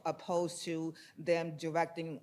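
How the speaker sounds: ordinary talk, nothing marked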